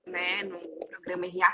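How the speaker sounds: sussurrado como um aparte; whispered aside. Real, not acted. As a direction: drop to a whisper for the name. Aparte ao mencionar o programa. (em voz sussurrada, à parte)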